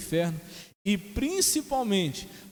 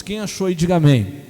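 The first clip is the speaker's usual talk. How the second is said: loud call to congregation; 12 dB louder than usual. Real, not acted. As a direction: belt out a congregational prompt. Preacher calls congregation to respond.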